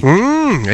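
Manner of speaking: light, camp little hum of a grunt; mock tennis grunt, very camp. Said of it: "that was very camp".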